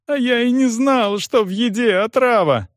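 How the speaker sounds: put-on high, pleading young voice; frightened cripple. Стефан оправдывается перед допросом, высоким испуганным голосом.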